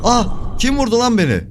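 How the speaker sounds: sudden high yelp of surprise; startled shout. Real, not acted. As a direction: react like you just got hit. Got shot in game.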